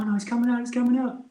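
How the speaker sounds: a grandma thrilled her grandson's out; mock excited old lady. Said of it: "she's like".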